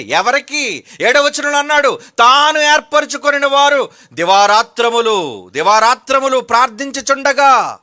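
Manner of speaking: loud, high-pitched sermon declamation; forceful preaching. Real, not acted. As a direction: thunder the scripture to the congregation, stretching key words.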